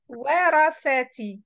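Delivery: "Warasati" slowly, syllables linked into one word; teacher's measured "Warasati" as one word; slow joined-up model. Shown as a demonstration. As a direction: join "Warasati" up, still unhurried. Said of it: "After this, you make one word".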